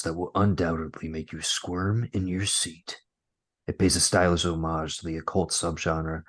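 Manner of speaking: light movie trailer narrator voice. Acted. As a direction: read it like a movie trailer announcer. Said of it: "I'm gonna go more trailer voicey on this one".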